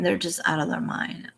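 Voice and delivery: whispered aside; softly whispered judgment on her fans. Real, not acted. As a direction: hush it like a private verdict. Hushed aside about her followers.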